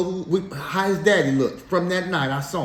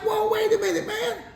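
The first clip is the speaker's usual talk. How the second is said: high, startled mock protest; retold alarm. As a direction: replay your surprise, pitched way up. Retells sudden shock at sobering up.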